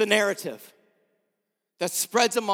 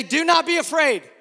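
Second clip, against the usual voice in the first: calling out NOT louder and higher; "not" hit hard, higher and louder; 6 semitones higher, 4 dB louder than usual. Shown as a demonstration. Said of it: "that was kinda sad".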